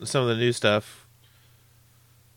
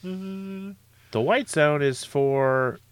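slow announcer voice, a bit higher; airport announcement; 6 semitones higher, much slower than usual. Pretend. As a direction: read it like a terminal PA.

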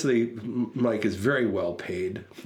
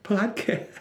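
fan greeting; 6 semitones higher, slower than usual. Retold or imitated.

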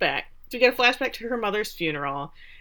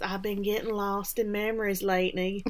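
softer, sweet put-on accent; Lenny's horrible accent; 6 dB quieter than usual. Lenny confessing in her video diary, sweet bad accent. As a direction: do a badly faked, sweet accent. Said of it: "in this horrible accent".

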